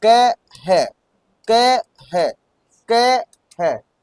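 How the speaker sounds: drawn-out syllables, spoken as you type; steady slow typing drill; slow dictation. Shown as a demonstration. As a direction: chant each syllable slowly while typing. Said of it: "कह मत पढ़ो आप, इसको क्या पढ़ोगे".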